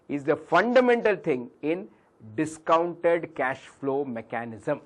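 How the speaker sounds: loud start, easing into slow, deliberate words; as loud as possible. Real, not acted. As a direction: project the key term loudly, slowing down as you finish. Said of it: "I'll be as loud as possible".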